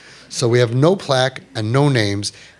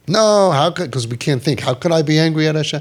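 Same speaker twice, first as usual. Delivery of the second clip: protesting father; 3 semitones higher than usual. Retold or imitated. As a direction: push back hard in disbelief.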